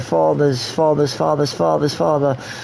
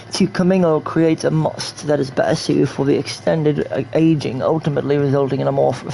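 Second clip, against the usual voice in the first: reads the wine lore in a lightly put-on narrator voice; reading lore aloud. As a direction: recite it like a museum placard, lightly.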